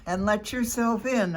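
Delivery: high, loud squeaky put-on voice; a wolf faking a granny squeak. A narrator's reading. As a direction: squeak it like a sick old lady. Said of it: "I squeaked".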